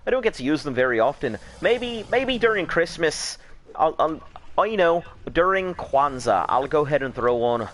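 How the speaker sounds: high-pitched put-on Irish accent, slowing on the holidays; chatting along in a playful Irish accent. Asked about his accents, he slips into Irish. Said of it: "If that's your Irish".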